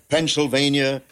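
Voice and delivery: imitated radio announcer delivery; announcer echo. Announcer repeats engineer's shouted word on air.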